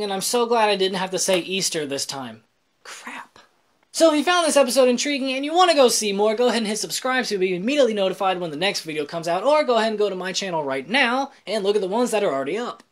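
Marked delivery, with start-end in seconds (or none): 2.8-3.4 whispered curse under breath. Real, not acted. Muttered after slip. 3.9-12.8 rapid sign-off plug; fast outro. Acted. Rushed channel outro.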